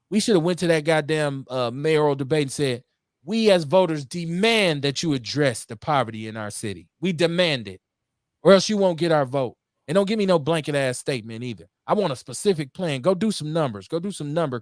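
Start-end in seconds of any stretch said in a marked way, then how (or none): 3.2-11.4 mildly forceful voters' demand. Acted. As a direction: lay down terms as a voter.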